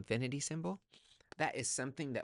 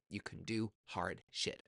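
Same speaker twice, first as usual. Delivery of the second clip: slow emphatic repeat; slower than usual. Shown as a demonstration. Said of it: "slower repeat".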